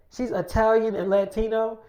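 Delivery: "She's Italian and Latino" lifted as a doubting question; questioning echo. Retold or imitated. Girl queries "She's Italian and Latino", doubtful.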